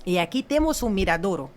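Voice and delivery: hammed-up tour pitch, building to a loud finish; showy sales pitch. New guide showing tourists the poster, showy pitch. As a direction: present each sight, then belt out the finale.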